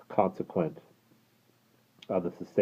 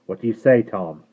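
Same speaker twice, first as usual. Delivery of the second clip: guard voice; 4 semitones higher, 8 dB louder than usual. Acted. Guard asking coachman.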